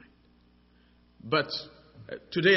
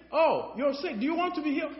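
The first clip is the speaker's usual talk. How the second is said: lightly voiced doctor; 10 semitones higher than usual. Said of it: "The doctor looks at me and said".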